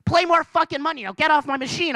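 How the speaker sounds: lightly voiced rude old gambler; crabby old lady. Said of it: "She's like".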